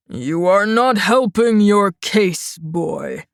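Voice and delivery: a hint of an old judge wagging a finger; lightly stern judge. A narrator's reading. Judge warns Shang, mild slow stern scolding.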